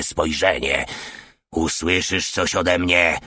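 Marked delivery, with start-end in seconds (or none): 1.5-3.2 grim promise. Acted. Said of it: "obiecał ponuro".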